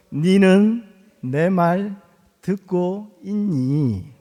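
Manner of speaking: put-on calm father asking the child in standard Korean; gentle standard version. Shown as a demonstration. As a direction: say it slowly and calmly in standard Korean. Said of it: "성질이 나니까".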